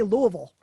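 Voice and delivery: Louisville said as LUH-vul, mumbled; Louisville run together like a local; local pronunciation. Shown as a demonstration. Guest telling how locals say Louisville. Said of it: "in Louisville, they say".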